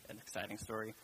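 understated, dry sarcasm; sarcastic. Real, not acted. Preacher admitting Numbers is dull, mildly sarcastic. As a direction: drop it lightly, without real enthusiasm. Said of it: "I'm being sarcastic when I say".

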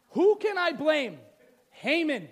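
loud, high, slow demand; acted royal fuming; storming king. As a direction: cast about loudly for a culprit. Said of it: "he's storming around".

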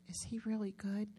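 whispered secret question. Retold or imitated. Patient whispering to her so John won't hear. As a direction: hush it so the therapist won't hear.

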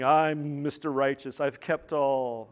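slow, drawn-out mock self-importance; mildly mocking arrogance; arrogant. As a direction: imitate a self-righteous man, stretching the words. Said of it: "who was arrogantly saying".

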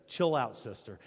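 mock casual. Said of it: "Now, not really. He doesn't really say".

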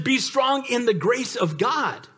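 slowed, each word weighted; deliberate scripture; slow emphatic. Acted. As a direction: let the verse land slowly.

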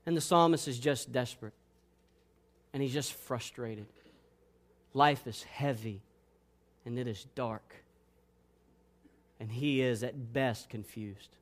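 very low, soft and halting; heavy, hushed. Acted. Preacher describing the desperate psalmist, hushed and heavy. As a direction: let each phrase drop under the weight.

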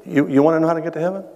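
calm, measured pronouncement with pauses between statements; calm Jesus. Retold or imitated. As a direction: answer patiently, letting each statement settle. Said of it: "he just calmly looks over and he says".

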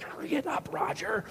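high, strained mock urgency; frantic wife. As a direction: urge him on in a high, frantic voice. Frantic wife urges the dad on.

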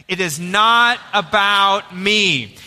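slow, sincere declaration; truly believing it. Shown as a demonstration. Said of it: "say it again like you truly, truly kind of believe that".

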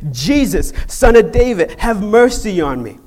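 loud, high plea carried across a crowd; crying out. Acted. Blind Bartimaeus cries out to Jesus, pleading loudly. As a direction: call out for mercy, pitch climbing. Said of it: "he began to cry out".

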